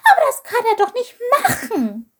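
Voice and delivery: high, startled little creature squeak; frightened squeak. A narrator's reading. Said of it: "piepste Chilp erschrocken".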